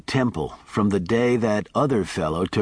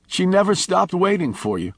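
crying; 9 semitones higher than usual. A narrator's reading. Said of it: "He was crying now".

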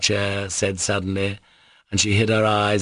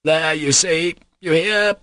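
high, exasperated outburst; raised pitch, bitterly making a point; sort of fury; 9 semitones higher, 4 dB louder than usual. Acted. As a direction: throw it out in short, agitated bursts. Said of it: "He turned with a sort of fury".

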